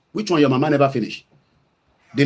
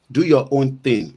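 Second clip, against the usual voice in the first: quoting sister; slower than usual. Retold or imitated. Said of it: "like my sister Shoya Koribe will say".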